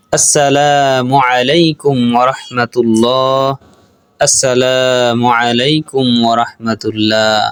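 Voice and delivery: slow, drawn-out closing salam; measured chant ending a prayer; prayer salam recitation. Shown as a demonstration. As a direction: recite the salam evenly with stretched vowels.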